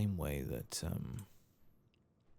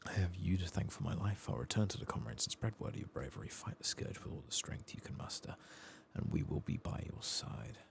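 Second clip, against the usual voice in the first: lightly acted, higher-pitched quest character; grateful rescued fighter; 7 semitones higher than usual. Rescued fighter thanking the player for saving them, lightly acted grateful pledge. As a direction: read it as a mildly heroic pledge.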